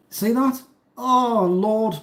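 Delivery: high amazed showing-off; delighted. Real, not acted. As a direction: hold it up to the camera, amazed. Showing the meringue.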